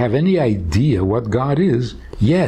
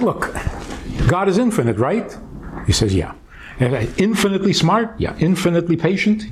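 raised pitch, pressing each question, losing patience; impatient; 6 semitones higher, faster than usual. Retold or imitated. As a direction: push him with quick impatient questions. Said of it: "So I said impatiently".

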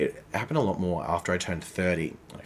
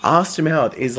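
laughing through words; 7 semitones higher, 8 dB louder, slower than usual. Real, not acted. Still laughing while explaining.

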